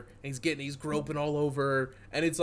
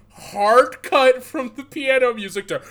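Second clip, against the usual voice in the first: loud, high, hyped-up rush; pumped-up shouted movie pitch; excited shouting; 4 semitones higher, 13 dB louder than usual. Real, not acted. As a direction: sell the chase scene like it's the best thing ever. Hyping up the movie's chase scene.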